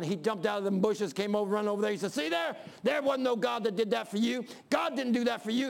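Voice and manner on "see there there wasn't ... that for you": a hint of a taunting smart aleck, higher; mocking young atheist. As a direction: jeer at the old woman. Mocking atheist taunts old woman.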